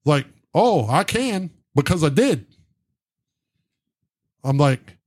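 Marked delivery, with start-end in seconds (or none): 0.5-2.5 higher-pitched, sing-song mock retort; indignant retort. Arguing with the supervisor who towed the truck, indignant. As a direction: snap back with exaggerated pitch swings.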